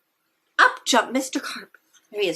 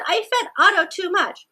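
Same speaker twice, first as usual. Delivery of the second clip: confessing; 9 semitones higher than usual. A narrator's reading. Child confessing to Mister Carp.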